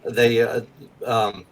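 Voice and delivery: put-on unhurried old-school Georgia lady; old Georgia accent. Shown as a demonstration. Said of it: "Savannah or like old school Georgia".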